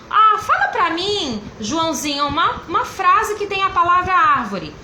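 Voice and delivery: a hint of sing-song teacher talk to a child; prompting a child. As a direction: coax a young pupil for a sentence.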